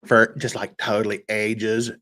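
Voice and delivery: put-on softly drawled valley girl totally ages; a hint of valley girl. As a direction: keep the valley girl bit going. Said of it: "vocal fry Valley Girl thing".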